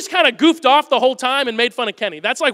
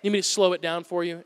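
patronizing; 4 semitones lower, 6 dB quieter than usual. Retold or imitated. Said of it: "he would get super patronizing".

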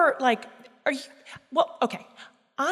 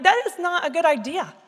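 higher, emphatic husband's protest; blunt objection; 5 semitones higher than usual. Retold or imitated. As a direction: lay out the objection without holding back. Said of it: "doesn't hold back, and he's like".

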